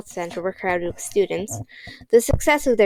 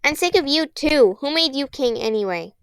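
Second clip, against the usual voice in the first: higher, bitter angry jab; 5 semitones higher than usual. Acted. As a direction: keep lashing out. Constance continues snarling.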